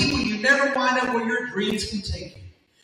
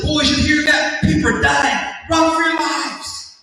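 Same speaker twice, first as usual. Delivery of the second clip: mock panic; 5 semitones higher than usual. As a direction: fake a panic to tease the boys. Dad mock-panics at haunted house.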